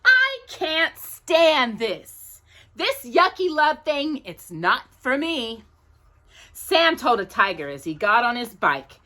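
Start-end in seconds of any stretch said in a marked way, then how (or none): 0.0-5.6 a hint of a fed-up boy, slowly; boy's slow complaint. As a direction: drag it out, mildly fed up. Sam quoted, slow.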